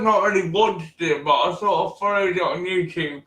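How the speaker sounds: talking around a sweet in mouth; mouth full. Real, not acted. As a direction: speak with a sweet in your mouth. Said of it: "Sorry, I've got a sweet in my mouth".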